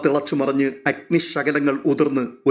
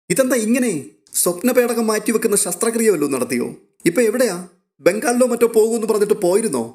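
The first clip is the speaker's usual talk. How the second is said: excited teasing; 8 semitones higher than usual. A narrator's reading. Rohit teasing his cousin on the phone, excited and raised. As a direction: pile on the teasing questions, pitched up.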